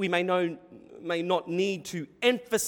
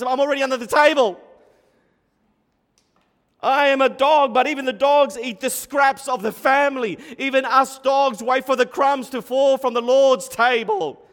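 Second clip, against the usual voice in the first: higher, louder, eager pleading; loud and high, bursting to answer; excited reply; 6 semitones higher, 8 dB louder than usual. Acted. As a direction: preach her witty comeback with rising force. Preacher voices the woman's excited reply.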